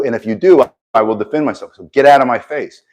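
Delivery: standing your ground, loud and firm; firm loud warning. Shown as a demonstration. To a bully at school, a loud firm warning. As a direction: raise the voice and warn the bully off. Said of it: "you put up your hands and you say".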